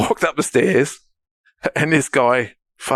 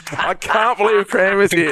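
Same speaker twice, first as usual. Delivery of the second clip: slow, marvelling repeat; mild excitement; 7 semitones higher, slower than usual. Retold or imitated. Retelling the stranger's words, slow and amazed. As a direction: say it slowly, amazed. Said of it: "That's what he said to me".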